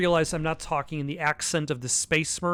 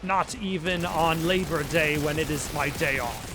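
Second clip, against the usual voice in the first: put-on superior British accent. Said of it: "sense of superiority British accent".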